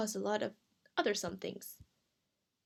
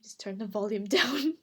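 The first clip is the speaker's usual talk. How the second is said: whispering; 5 dB louder than usual. Real, not acted. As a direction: hush it, half laughing. Alone in room, scared.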